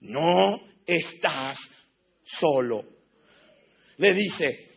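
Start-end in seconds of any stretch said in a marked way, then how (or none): 0.0-2.8 gentle voice of God. Retold or imitated. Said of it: "Le dijo así Dios".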